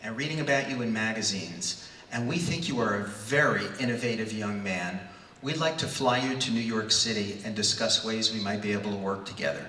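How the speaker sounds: lightly voiced dour executive; Saul Harrison, dour. Executive inviting a young man to New York, mildly dour. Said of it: "it's a dour male voice".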